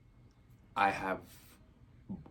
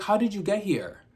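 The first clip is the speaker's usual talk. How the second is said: Jamaican lady; 11 semitones higher, 5 dB louder than usual. Retold or imitated. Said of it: "a Caribbean lady".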